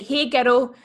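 put-on "girl" with a rolled R and an added syllable; "girl" stretched into two syllables, R rolled. Imitating schoolgirls greeting each other, "girl" with rolled R. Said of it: "with the R rolled like that".

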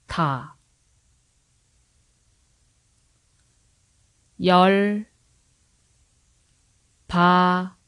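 열 바 다 split into separate syllables; sounding out words. Shown as a demonstration. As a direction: sound out 열 바 다 one syllable at a time. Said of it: "break it into syllables so that you can repeat after me".

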